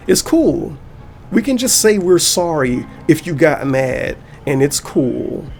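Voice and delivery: slow, sneering mock; sarcastic. Vlogger mocking the fake apology, slow sneering sarcasm. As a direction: drag out the fake excuse.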